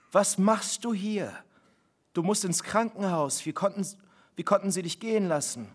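mild panic, pressing him for answers; a mother shocked her husband walked out of hospital, lightly alarmed; shocked disbelief. Acted.

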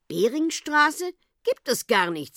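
high-pitched, brusque denial; gruff. A narrator's reading. Gendarme rebuffing the whale's question, gruff. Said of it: "sagte Herr Obacht unwirsch".

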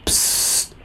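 unvoiced hushing psst; flüstern. A narrator's reading. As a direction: shush someone in a whisper. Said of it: "flüstere ich". (geflüstertes Psst)

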